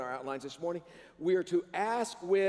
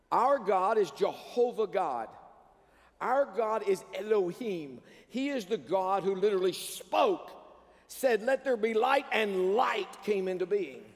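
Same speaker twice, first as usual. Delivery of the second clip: rising preaching; 4 semitones higher, 3 dB louder than usual. Real, not acted. Building praise in sermon.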